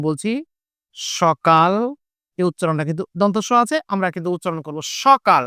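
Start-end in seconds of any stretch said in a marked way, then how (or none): 1.2-1.7 সকাল said with an initial sh, 'shokal'; sh-sound pronunciation. Shown as a demonstration. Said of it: "তালব্য স এর মতন উচ্চারণ হয়". 5.0-5.4 সকাল pronounced 'shokal'; sh-sound pronunciation. Shown as a demonstration. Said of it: "তালব্য স এর মতন উচ্চারণ হয়".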